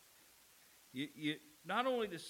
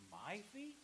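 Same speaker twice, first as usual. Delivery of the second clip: softer "My feet?", "feet" rising high; secondary stress on FEET; 4 semitones higher, 7 dB quieter than usual. Shown as a demonstration. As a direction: question lifting on "feet". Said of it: "the secondary emphasis in that sentence".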